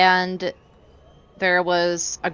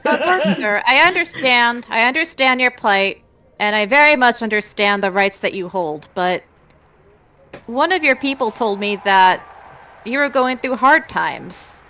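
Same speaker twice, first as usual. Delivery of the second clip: lightly voiced smooth talker; coaxing bartender pitch; 4 semitones higher, 3 dB louder than usual. A hint of a character sweet-talking the bar owner. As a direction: coax the old man gently.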